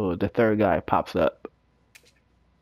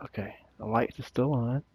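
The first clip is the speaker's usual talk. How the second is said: hushed whisper; 10 dB quieter than usual. Real, not acted. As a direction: whisper so the monster won't hear. Hushed in dark game.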